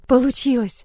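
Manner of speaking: excited burst of relief; радостный возглас. A narrator's reading. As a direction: blurt it out, thrilled it worked. Радостный возглас после удачи. (радостно воскликнуть)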